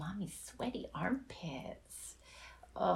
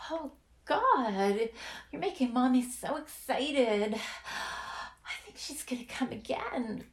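higher, breathier and more urgent; aroused excitement; 4 semitones higher than usual. Acted. Roleplay partner getting worked up near climax. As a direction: let the excitement build toward climax.

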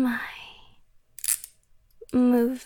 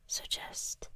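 ordinary delivery

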